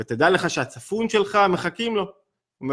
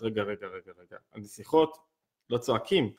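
put-on small, hushed little-girl voice, much softer; daughter's protest; 6 semitones lower, 6 dB quieter than usual. Father voicing his daughter's hushed protest, a small soft girl's voice. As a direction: quietly remind dad princesses aren't yelled at.

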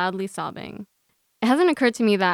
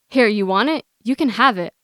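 loud, taunting defiance; defiant; 2 semitones higher, 6 dB louder than usual. Acted. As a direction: throw the words at them. Defiantly hands over phone.

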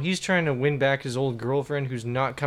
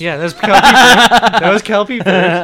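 Kelpie Ferris impression; 5 semitones higher, 13 dB louder than usual. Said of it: "you just did Kelpie Ferris".

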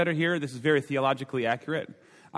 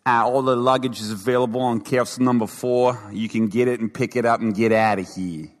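lightly voiced announcer over the intercom, louder; airport intercom lady; 4 semitones lower, 4 dB louder than usual. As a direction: read it like an airport luggage call. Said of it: "she goes".

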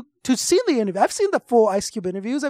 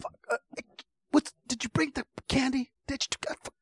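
hushed, much softer whisper in a dark cinema; mock theater whisper; 13 dB quieter than usual. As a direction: whisper so the row behind won't hear.

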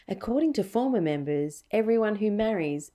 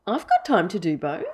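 put-on Tennessee accent. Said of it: "in a Tennessee accent".

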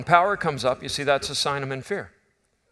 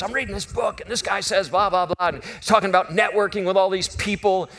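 excited wife; 5 semitones higher than usual. Retold or imitated. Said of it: "she's so excited".

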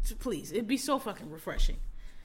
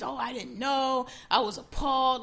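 mock appalled celebrity; 2 semitones higher than usual. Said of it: "all these".

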